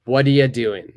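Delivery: "What are you doing" reduced to "whaddya doin"; model for repeating. Shown as a demonstration. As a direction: say it clearly for the class to copy. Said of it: "after I say the question, please repeat it".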